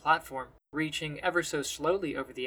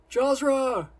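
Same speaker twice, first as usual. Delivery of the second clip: loud, high call of a name; shouting; 10 semitones higher, 7 dB louder than usual. A narrator's reading. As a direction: call her from inside. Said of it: "she hears him shouting".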